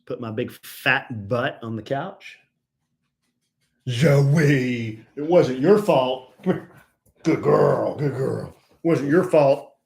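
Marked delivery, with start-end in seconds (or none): 3.9-6.3 louder, tender reassurance to a pet; soothing dog talk. Real, not acted. 6.4-9.8 soothing dog talk. Real, not acted.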